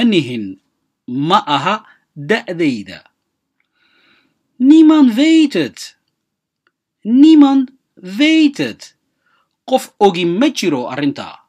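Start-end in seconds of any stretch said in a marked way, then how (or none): 4.5-8.9 loud, high and slow, hitting Niemand hard; emphatic. Shown as a demonstration. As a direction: call out Niemand weet het with full force. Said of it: "teacher models phrase with force". (si xoog leh oo kor ah u dheh)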